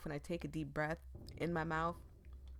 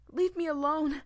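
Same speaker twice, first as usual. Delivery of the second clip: loud, higher angry outburst; angry shout; 9 semitones higher, 9 dB louder than usual. Acted. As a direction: push her away with a shout. Ember lashes out at friend.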